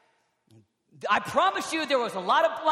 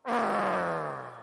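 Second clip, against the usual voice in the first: long low "arrgh" roar; drawn-out yell; 3 semitones lower than usual. Acted. Blind man shouting all the more, wordless roar. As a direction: growl out a long wordless cry. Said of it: "So he shouted all the more".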